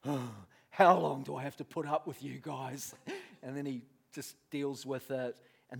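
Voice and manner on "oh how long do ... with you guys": mock weary sighing; deep sigh. Jesus to his bungling disciples, exasperated mock sigh. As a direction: heave a big sigh before the complaint. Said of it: "He sighs deeply".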